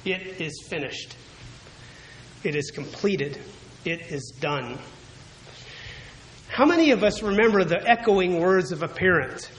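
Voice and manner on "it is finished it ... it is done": soft, falling declaration; hushed declaration. Shown as a demonstration. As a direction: let the words fade reverently.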